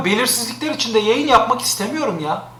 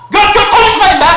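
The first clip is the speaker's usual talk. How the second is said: angry shout at chat; 8 semitones higher, 5 dB louder than usual. Real, not acted. Streamer scolding chat angrily.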